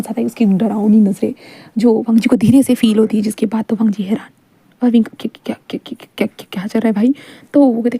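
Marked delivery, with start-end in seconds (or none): 5.0-7.1 1 flustered stammer. Acted.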